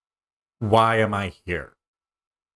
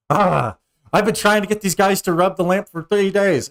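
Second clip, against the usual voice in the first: high, squeaky little cat voice, let down; little genie voice; 10 semitones higher, 6 dB louder than usual. Acted. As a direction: peek out and find the wrong person. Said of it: "he says".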